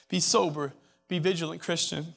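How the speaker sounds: dropped to a soft, intimate plea; hushed repeat. Real, not acted. Preacher repeating his warning to the students, now hushed. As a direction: pull the room in close and say it softly.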